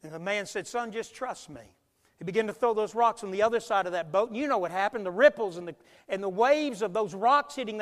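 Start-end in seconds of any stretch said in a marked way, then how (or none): 0.7-1.6 calm reassurance. Retold or imitated. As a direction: quietly settle an upset child, as a retold kindly man. Man reassures crying boy in story.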